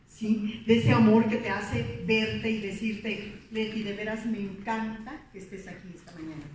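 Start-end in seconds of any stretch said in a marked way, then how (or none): 3.5-6.4 sincere warm demo. Shown as a demonstration. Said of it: "¿Verdad que no suena igual?".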